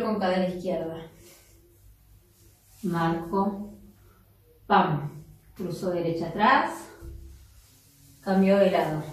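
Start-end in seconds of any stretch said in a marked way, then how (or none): 4.7-5.2 low, punchy "pam" marking a dance move; vocal hit "pam". Shown as a demonstration. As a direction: punctuate the step with a low "pam". Dancer voices an accent hit. ("pam" grave marcando el paso)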